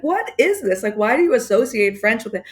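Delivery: mock-indignant mother demanding an explanation; upset mother. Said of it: "which would upset my mother".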